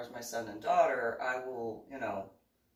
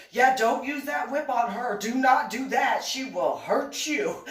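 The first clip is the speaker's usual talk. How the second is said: firm warning; 9 semitones higher, 7 dB louder than usual. Retold or imitated. Master Charles warning the whip guy.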